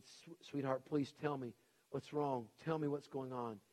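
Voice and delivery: gentle plea. Retold or imitated. Wife coaxing her weeping husband, soft and tender. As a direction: ease the words out like comforting someone in tears.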